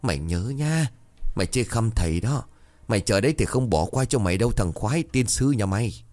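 a touch of snappish annoyance; mildly irritated scolding. Acted. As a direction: tell him off without shouting. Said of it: "rồi gắt".

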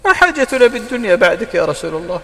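high, emotional retold lament; tearful plea. Ansar answering the Prophet as they weep, tearful plea. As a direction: plead as if moved to tears. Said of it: "فبكوا وقالوا".

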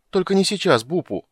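high, loud desperate plea; pleading. Acted. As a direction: beg her to stop. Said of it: "взмолился Кендер".

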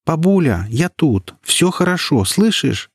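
high call to grandmother. A narrator's reading. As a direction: call across the room to her. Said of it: "прокричала Даша". (громко, высоко окликая бабушку)

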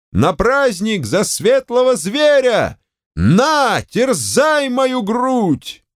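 high, slow, ecstatic proclaiming; ecstatic frenzy. A narrator's reading. The professor crying to the ladies as he rips his shirt, high and slow. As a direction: rise to a wild ecstatic cry.

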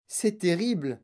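mild wail of dismay; understated groaning complaint; moaning lament. Acted. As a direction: lament it with a touch of despair. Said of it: "gémit madame Tivy".

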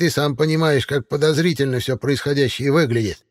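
high, cackling crone questioning; old witch voice. A narrator's reading. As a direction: needle him like a suspicious witch. Baba Yaga voiced in the story.

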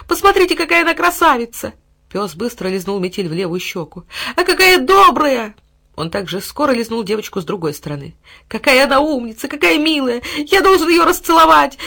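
high, loud gushing delight; adoring dog. A narrator's reading. Dog gushing over the girl, high and loud delight. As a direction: gush over her.

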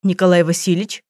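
usual speaking voice

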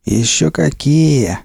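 slow, drawn-out thug reply; gruff gangster voice. Acted. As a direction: answer like a lazy bandit boss. Gangster dean answers in character.

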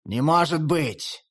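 slow, shaken disbelief; dazed repeat. Acted. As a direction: repeat it numbly. Shaking head, repeat. (потрясённо, медленно)

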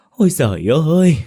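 grieving wife keening at the funeral; wailing cry. A narrator's reading. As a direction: let the cry break out long and high. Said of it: "nghe vợ gào khóc".

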